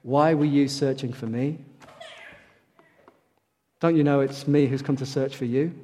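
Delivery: mildly softened, tender quote; gentle and loving. Acted. Preacher voicing Jesus answering Mary and Joseph, gentle and loving. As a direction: say it gently, with understated love. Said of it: "I'm sure gently and very lovingly".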